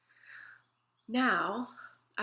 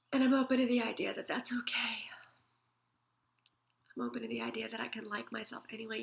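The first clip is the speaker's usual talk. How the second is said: soft self-talk; faster than usual. Shown as a demonstration. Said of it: "and then you say".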